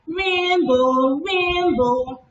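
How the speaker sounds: put-on high excited child voice; cheering about a rainbow; excited cry. A narrator's reading.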